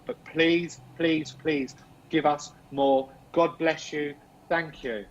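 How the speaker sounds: slow, measured calling-out to spirits; spirit invocation. Real, not acted. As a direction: plead with unseen spirits in drawn-out, deliberate phrases. Calls out to spirits.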